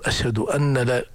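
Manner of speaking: أن said with a heavy doubled nun; the wrong doubled form of أن لا. Shown as a demonstration. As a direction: stress the nun of أن as a mistake. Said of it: "تشديد النون".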